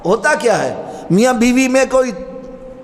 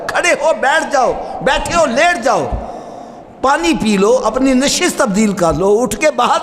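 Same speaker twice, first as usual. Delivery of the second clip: rising preaching call; 5 semitones higher than usual. Real, not acted. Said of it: "اسلام ہمیں کیا کہتا ہے".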